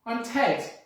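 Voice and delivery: thief's voice. Acted. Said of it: "who told them".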